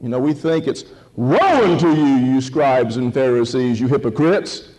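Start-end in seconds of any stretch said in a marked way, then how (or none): 1.2-4.7 a preacher's mock denunciation; imagined stern condemnation. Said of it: "what if he didn't say it that way".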